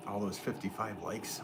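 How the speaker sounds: hushed whisper under the breath. Real, not acted. Potter whispering to viewers mid-throw, hushed whisper. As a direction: breathe the words out, no voice. Aside while struggling with clay.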